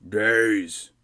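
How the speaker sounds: curt goblin king answer. Acted.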